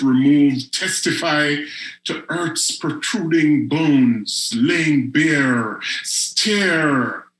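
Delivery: measured spoken-word recital, grave and deliberate; poetry reading. Acted. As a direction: let each image land before moving on. Reads poem Our Sweet Tooth.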